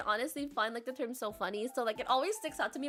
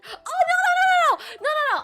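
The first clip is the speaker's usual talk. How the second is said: loud, high, rapid-fire no's; emphatic denial; 12 semitones higher, 10 dB louder, much faster than usual. Real, not acted. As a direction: shout it down in a high, loud protest. Denies thinking calcium was a condition.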